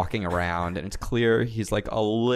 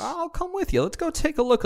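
put-on southern drunk Paul Revere.

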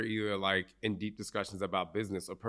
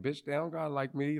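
higher-pitched mock Jersey defiance; Jersey attitude; 6 semitones higher than usual. Jersey native brushing off rejection, mock defiance. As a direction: put on some brash Jersey sass. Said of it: "being from Jersey".

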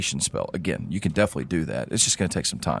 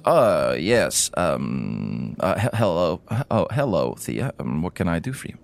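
put-on stammering, startled old scholar; flustered old gnome. Old gnome looks up at Thea, stammering. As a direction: caught mid-writing, fumbling for words. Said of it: "the old gnome looks up, and he says".

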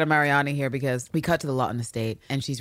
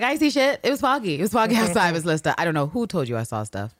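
evasive groom; 3 semitones higher than usual. Retold or imitated. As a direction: dodge the question nervously. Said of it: "he's like".

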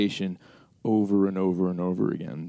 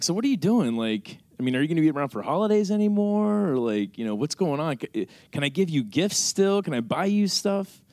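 high-pitched questioning mom; imitating mom; 8 semitones higher than usual. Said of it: "she was like".

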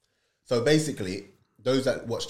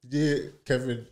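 raised, loud podcast banter; real shouting; 3 semitones higher, 4 dB louder than usual. Real, not acted. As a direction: call the names out loudly. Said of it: "Stop shouting".

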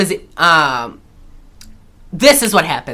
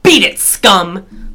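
retold saloon boss; much slower than usual. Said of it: "Burt says".

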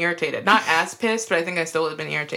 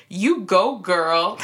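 imitating boss; 3 dB louder, much slower than usual. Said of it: "she would get on the headset and say".

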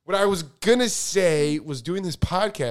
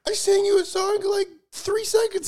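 mock outrage; 3 dB louder than usual. Real, not acted.

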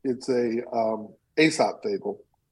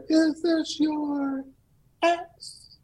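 much higher, very slow angel voice; 14 semitones higher, much slower than usual. Acted. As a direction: stretch it out like a gentle otherworldly angel. Angel offers silver axe.

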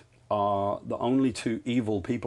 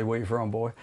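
put-on Georgia accent; 4 dB quieter than usual. Showing the one American phrase he knows, Georgia accent. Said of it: "so I know how to say".

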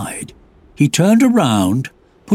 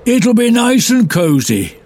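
cheerful welcoming; 8 semitones higher, 3 dB louder than usual. Acted. Portly bear welcomes.

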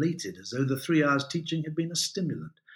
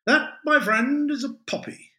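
pompous; 13 semitones higher, 5 dB louder than usual. Acted. Adam pompous explanation.

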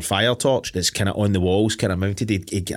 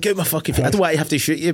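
higher-pitched mock plea to back off; retold reluctant threat; 6 semitones higher than usual. Retelling the man with the gun, reluctant mock threat. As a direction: play the reluctant gunman, voice pitched up. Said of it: "he's just like".

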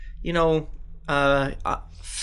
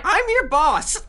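laughing protest; 10 semitones higher, 4 dB louder, slower than usual. Acted.

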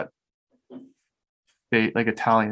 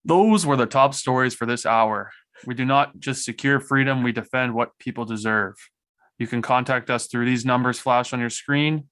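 news anchor voice. Shown as a demonstration. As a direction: read it like the evening news anchor. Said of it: "News anchor voice".

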